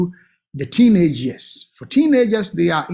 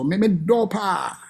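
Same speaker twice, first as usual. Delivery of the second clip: slow, tender confession; much slower than usual. Acted. Parent telling child I love you, slow and tender. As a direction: linger on it gently.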